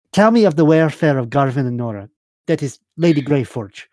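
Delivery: lightly voiced commanding noblewoman; formal demand, firmly pressed at the start; Serafina. Game master voices Serafina.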